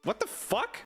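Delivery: high-pitched mock outrage; a comic yelp of disbelief at the hidden fee; outraged disbelief. Outraged at the warranty charge.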